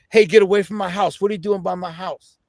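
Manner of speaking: mock yell, loud at first, then easing; imitated woman's yell. Woman yelling from across the street at a stranger, imitated yell. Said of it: "I hear a woman yell".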